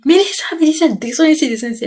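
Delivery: high calling shout for Mélissa; father yelling. Retold or imitated. Father yelling up at his daughter to come down, shouting. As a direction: call her down like an angry dad. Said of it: "j'entends le père de Mélissa qui crie".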